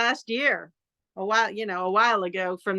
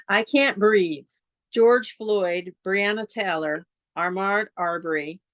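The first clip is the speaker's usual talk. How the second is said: poetry reading. Acted. Reads her list poem.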